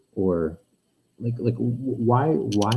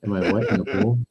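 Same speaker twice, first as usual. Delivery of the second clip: sounds like in a pool; muffled mic, like underwater. Real, not acted. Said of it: "now you sound like you're in the pool".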